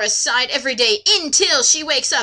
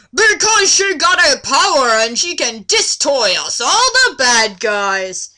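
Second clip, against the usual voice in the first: mock orc shout; 6 dB louder than usual. Orcs answer.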